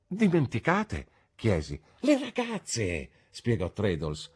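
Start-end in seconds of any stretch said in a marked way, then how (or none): 0.1-1.1 high, slow, stretched echo; puzzled question. A narrator's reading. Narrator questions his friend's forgetting, puzzled. 2.0-3.1 eager explanation. A narrator's reading. Traddles explains to his puzzled friend, eager.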